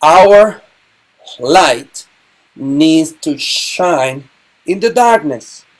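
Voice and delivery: slow, earnest prayer voice. Real, not acted. Teacher praying for deaf people, slow and earnest. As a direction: pray it slowly and reverently.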